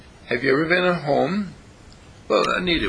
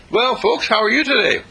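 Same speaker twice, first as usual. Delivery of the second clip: much higher, louder puppet voice; doll's voice; 9 semitones higher, 4 dB louder than usual. Pretend. Doll Ernie greeting the family, high puppet voice. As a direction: chirp like a little doll. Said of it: "Ernie says".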